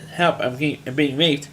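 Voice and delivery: unbothered, matter-of-fact plea; calm, almost casual cry for help. Retold or imitated. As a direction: say it as if reporting the weather. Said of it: "she just says very calmly".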